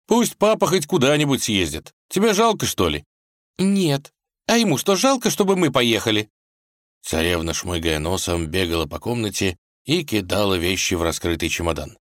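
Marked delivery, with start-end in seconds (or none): 0.1-6.3 put-on high, upset young wife's voice; a princess pleading for her father, sniffling; tearful tsarevna. A narrator's reading. Vasilisa argues with husband Vanya, high and upset.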